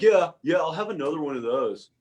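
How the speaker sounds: put-on eager teen bluffing along, starting high and loud; mock-teen overeagerness; trying to be cool. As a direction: jump in keenly, then settle into fake confidence. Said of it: "I was trying to be cool".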